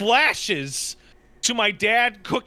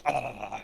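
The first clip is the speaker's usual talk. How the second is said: low, soft sleeper's noise; imitated sleeping noise; 7 semitones lower, 7 dB quieter than usual. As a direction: imitate someone sound asleep. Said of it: "just asleep".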